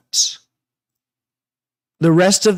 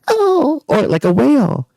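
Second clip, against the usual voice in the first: laughing; 9 semitones higher than usual. Real, not acted. Laughing at her own bat joke.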